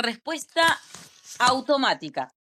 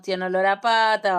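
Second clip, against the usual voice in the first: fed-up complaint; 4 semitones lower, 4 dB louder than usual. Retold or imitated. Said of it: "pasa el año y decimos".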